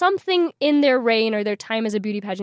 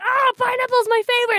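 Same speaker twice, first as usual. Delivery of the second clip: much higher, bubbly, delighted exclamation; gushing about pineapple; 13 semitones higher than usual. Retold or imitated. Student at a formal cocktail party gushes over the pineapple, high and bubbly. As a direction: gush like a kid spotting a treat, high and bright. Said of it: "and I was like".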